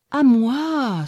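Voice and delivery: the little ash begs to be heard; pleading little ash. A narrator's reading. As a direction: beg for a turn, high and small. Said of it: "supplia le petit frêne".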